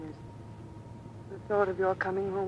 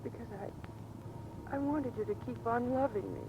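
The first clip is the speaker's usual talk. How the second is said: breathy, much softer, slowed confession; near tears; 4 semitones higher, 8 dB quieter, slower than usual. Acted. Wife confessing to husband, almost whispered and tearful. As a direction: let it almost break.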